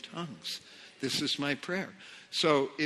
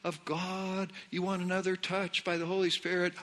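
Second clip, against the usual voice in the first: lightly imitated meeting leader, higher and softer; leaders' altar call; 4 semitones higher, 5 dB quieter than usual. Leaders inviting the meeting to seek more of God, imitated altar call. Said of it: "when they said".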